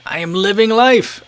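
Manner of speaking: slow, high-pitched boast; mock triumphant. Young self bragging about pizza three times weekly, mock triumphant. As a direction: stretch it out in proud, exaggerated delight.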